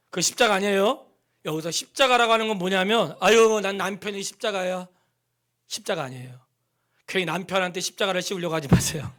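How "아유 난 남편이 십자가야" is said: a light put-on sigh of a complaining wife; mock wife's complaint. Pastor mimicking a wife grumbling about her husband, mock sigh.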